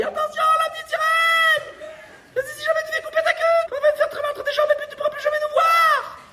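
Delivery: very high, loud put-on voice; father shouting warning. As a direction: yell the warning like a squeaky cartoon dad. Le papa de la sirène avertit. (papa qui crie, voix très aiguë)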